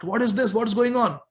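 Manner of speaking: gasping-crowd disbelief, lightly acted; shocked. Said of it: "they are shocked".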